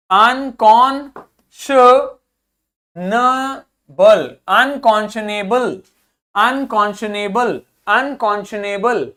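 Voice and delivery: unconscionable drawn out very slowly; very slow model pronunciation. Shown as a demonstration. Teacher slowly models unconscionable for the class. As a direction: spell unconscionable out in sound, slowly. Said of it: "इसको देखिए".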